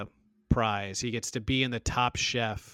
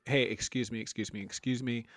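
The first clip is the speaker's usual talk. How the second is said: mock firm boundary; 3 semitones lower, 3 dB quieter, faster than usual. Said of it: "he should have been like".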